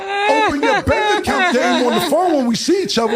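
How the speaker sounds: bragging shout. Real, not acted.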